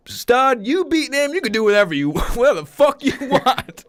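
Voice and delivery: high-pitched reenacted cheer, breaking into laughter; retold excited approval. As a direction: grant it gleefully, as if quoting. Retold coach's excited reply, laughing.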